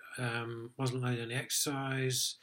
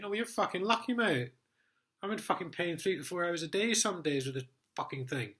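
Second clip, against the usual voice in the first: angry retort; 6 semitones higher than usual. Retold or imitated. Telling the sergeant off about his hernia pain, high angry rant. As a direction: snap back at him, fed up and in pain.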